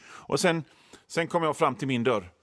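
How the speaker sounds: usual speaking voice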